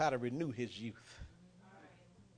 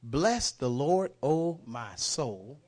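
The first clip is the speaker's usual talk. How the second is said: slow reverent reading; 4 dB louder, much slower than usual. Shown as a demonstration. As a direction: stretch out "Bless the Lord" very slowly. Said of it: "I'm gonna bless his holy name".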